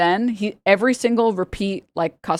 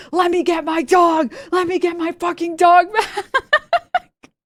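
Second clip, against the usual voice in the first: much higher, slow hammed-up demand, laughing at the end; mock yelling; 12 semitones higher, 3 dB louder, slower than usual. Lady at the clinic door at three AM, hammed-up yell. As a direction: bang on the door and demand the dog. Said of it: "smashing the door and".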